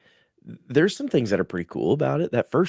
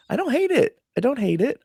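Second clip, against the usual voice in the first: higher, laughing, hedging; laughing concession; 13 semitones higher than usual. Real, not acted. Host giving the show faint praise, laughing. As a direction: grudgingly admit it through a laugh. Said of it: "I'll be the nice one".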